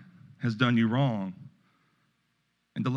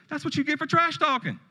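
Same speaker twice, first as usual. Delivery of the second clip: little grandson voice. Retold or imitated. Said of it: "He goes".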